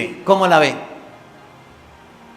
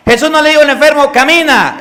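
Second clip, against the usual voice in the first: quick, louder, higher preaching push; énfasis rápido; 6 semitones higher, 4 dB louder, faster than usual. Real, not acted. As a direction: drive it home fast. Predicador enfatiza en sermón. (énfasis rápido y fuerte)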